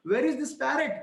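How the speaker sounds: a touch of an irate husband asking; angry demand. Retold or imitated. Husband demands of his wife where the parrot went, mildly angry. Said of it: "he got angry and started asking his wife".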